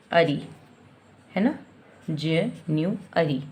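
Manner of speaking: Jan-u-ary broken into slow syllables; teacher sounding out syllables. Shown as a demonstration. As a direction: sound out ज, न्यू, अरी one chunk at a time. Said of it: "break करेंगे".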